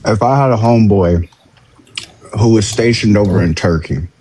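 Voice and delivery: talking while chewing food; mouth full. Real, not acted. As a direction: speak through a mouthful of food. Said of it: "Don't talk with your mouth full".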